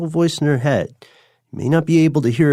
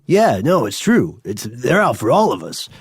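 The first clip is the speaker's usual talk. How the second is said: higher, pushy mock conspiracy believer; mock incredulous believer; 4 semitones higher than usual. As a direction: needle them like a believer. Acted quote of believers.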